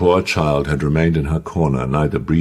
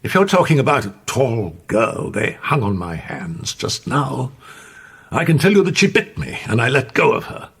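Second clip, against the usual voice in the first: surly; 8 semitones higher than usual. A narrator's reading. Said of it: "in a sincere but surly tone".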